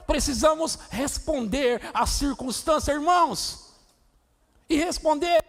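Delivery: high, loud, shouting sermon; impassioned shouted sermon; fiery preaching. Acted. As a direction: preach it with full force to the church. Preaching at full force.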